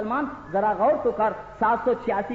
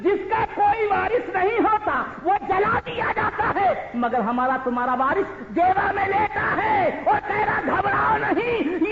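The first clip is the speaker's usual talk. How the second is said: preaching at full force; 10 semitones higher than usual. Acted. Preacher reassuring the congregation about their saint, fervent shout. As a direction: call out to the simple believer with fervour.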